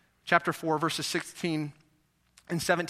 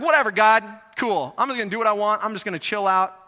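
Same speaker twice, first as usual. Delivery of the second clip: apathetic; 6 dB louder than usual. Retold or imitated.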